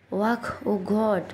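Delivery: slow gag into a groaned oh god; retching after bitter beer. Acted. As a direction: drag out the retch, then moan.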